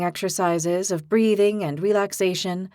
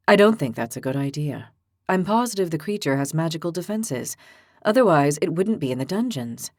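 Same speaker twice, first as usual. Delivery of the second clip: low, measured, reasonable voice; calm gentle giant; 4 semitones lower than usual. Acted. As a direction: patiently talk her down. Calm horned Evo cautions.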